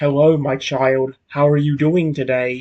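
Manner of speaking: deep, metal-edged, metallic legendary creature voice. Imagining a baby Lugia speaking to you in your mind, deep metallic Lugia voice. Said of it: "Lugia's voice has always been like, as I describe it, deep and metallic".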